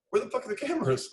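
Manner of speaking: mock furious crew boss; exasperated. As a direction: demand it, fed up. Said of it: "we're like".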